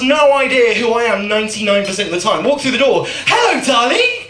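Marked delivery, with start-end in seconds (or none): 3.3-4.2 high-pitched acted hello; cheery greeting. Comedian acting out walking through the door, high cheery greeting.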